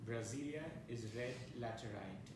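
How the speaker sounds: measured recital with long pauses between lines; incantatory list poem, each line falling to a close; poetry reading. Acted. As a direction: read each line as its own image, then pause. Reads his poem aloud.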